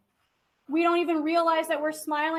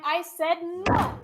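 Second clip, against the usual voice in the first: slow lead-up, "no" set apart and emphatic; stress on no; much slower than usual. Shown as a demonstration. Teacher showing students how to accent a word, stress on no. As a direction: underline "no" like a pound on the table. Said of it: "put a stress on a word".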